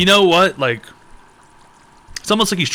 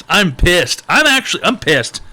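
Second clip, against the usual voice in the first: hammed-up anger; 4 semitones higher, 5 dB louder than usual. Ranting about the holiday.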